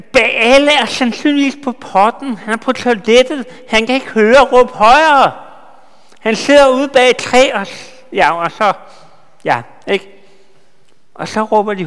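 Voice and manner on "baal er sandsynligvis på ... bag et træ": higher and louder playful scorn; mocking jeer. Elijah jeering that Baal is on the toilet, mocking. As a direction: ridicule the absent god with relish. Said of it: "det Elias faktisk siger her på dansk".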